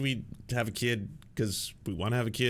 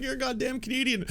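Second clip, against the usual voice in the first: much higher, incredulous jab; exasperated callout. Retold or imitated. Calling out a Canadian right-winger, exasperated high jab. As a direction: throw it at them in disbelief. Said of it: "I'm like".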